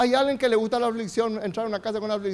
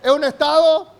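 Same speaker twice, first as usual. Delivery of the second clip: loud call-out; 4 semitones higher, 5 dB louder than usual. Real, not acted. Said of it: "digan bien fuerte".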